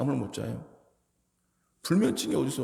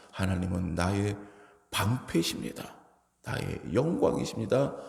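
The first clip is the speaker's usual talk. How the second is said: quiet confession; 4 semitones lower than usual. Retold or imitated. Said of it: "라고 고백하는 거예요".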